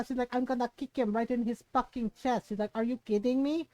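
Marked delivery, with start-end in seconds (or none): 0.3-2.5 put-on mildly irate accented mother; a hint of mock motherly fury; imitating mad mom. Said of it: "She was so mad". 2.7-3.7 lightly voiced indignant mother; mock disbelief with a touch of anger; imitating mad mom. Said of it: "She was so mad".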